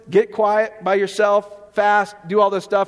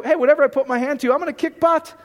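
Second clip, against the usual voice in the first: higher, fast, cocky self-talk; mock bravado, higher and quicker; pumped-up boast; 5 semitones higher than usual. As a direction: hype yourself up like you can't lose. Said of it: "Just go".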